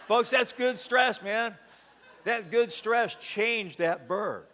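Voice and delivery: slow loud emphatic preacher line. Real, not acted. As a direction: drive the point home slowly. Punchline lesson after joke.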